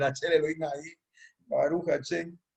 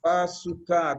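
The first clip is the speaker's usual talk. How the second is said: "Bazooka" with the stress on the final A; acento en la A; much slower than usual. Shown as a demonstration. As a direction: land on the last syllable of "Bazooka", the A, not the U. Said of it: "con acento en la A". ("Bazooka" con acento en la A final)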